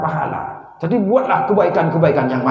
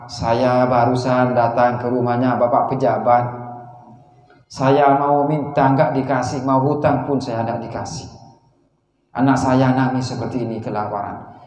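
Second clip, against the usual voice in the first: pleading poor father; 5 semitones lower than usual. Acted. Poor man pleads, children starving.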